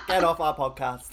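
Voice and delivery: laughing through the words. Real, not acted. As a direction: say it while cracking up. Joking banter, laughing.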